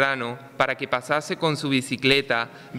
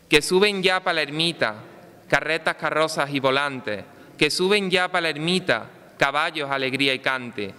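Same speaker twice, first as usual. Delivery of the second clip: town crier. Acted. Recited festival poem, pregón.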